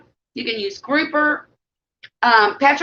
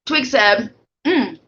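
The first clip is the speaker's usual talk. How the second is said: talking through a mouthful; words round a bite of food; mouth full; slower than usual. Real, not acted. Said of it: "Sorry, I got my mouth full".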